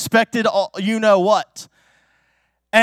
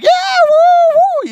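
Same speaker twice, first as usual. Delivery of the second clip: very high, loud roller coaster woo; riding the coaster, wild excited woo; thrill ride whoop; 8 dB louder, slower than usual. Retold or imitated. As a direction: scream with joy down the drop. Screaming on the roller coaster drop.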